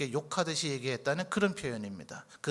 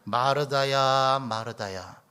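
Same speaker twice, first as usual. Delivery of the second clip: slow, low, tender name-calling; affectionate calling; 4 semitones lower, slower than usual. Acted. Jesus calling Martha, whom he cherishes, tender and slow. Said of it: "그를 굉장히 아끼고 사랑하고 계시는".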